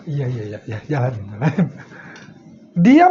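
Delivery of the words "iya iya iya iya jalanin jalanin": softer, lower, patient "iya, iya"; soft yielding teacher. Retold or imitated. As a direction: humour the student gently. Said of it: "Kalau beliau". (guru mengiyakan dengan pelan)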